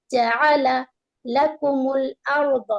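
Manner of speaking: slow measured لکم الارض; slow recitation. Shown as a demonstration. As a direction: recite it slowly for students. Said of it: "teacher recites".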